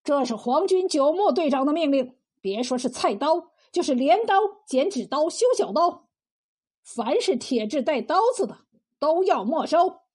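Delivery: mildly self-important proclamation; haughty. Acted. Collaborator proclaims the captain's order to the cook, a touch haughty. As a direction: lay down the order with understated arrogance. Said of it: "趾高气扬地说".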